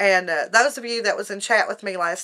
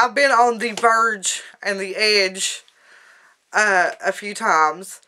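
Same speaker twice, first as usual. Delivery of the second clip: on the verge of tears; slower than usual. Real, not acted. Near tears recalling the hard times.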